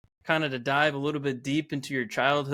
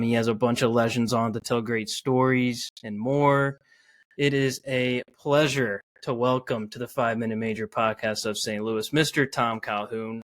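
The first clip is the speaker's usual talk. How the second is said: louder, lively guest introduction; announcer intro; 3 dB louder than usual. Acted. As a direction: introduce the guest like a host on air.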